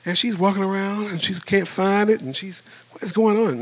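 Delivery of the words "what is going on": high-pitched imitation of a baffled wife; frustrated wife. Wife searching the parking lot for the car, imitated frustration. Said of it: "Now she's getting frustrated".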